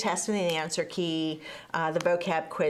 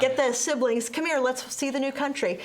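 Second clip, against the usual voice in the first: put-on higher, eager child calling out; excited kid; 4 semitones higher than usual. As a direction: call Mom like a thrilled kid. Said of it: "and be like".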